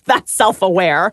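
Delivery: laughing through the words; said slowly through a laugh; amused laughing. Real, not acted. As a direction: let a laugh break into the line. Interviewee laughs while commenting on tape.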